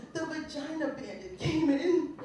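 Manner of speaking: laughing through the story; laughing retelling. Retold or imitated. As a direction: tell it while laughing. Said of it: "She said".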